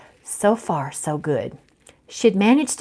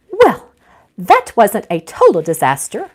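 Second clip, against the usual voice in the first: said dryly; 2 semitones higher, 7 dB louder than usual. Acted. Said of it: "Gertrude said dryly".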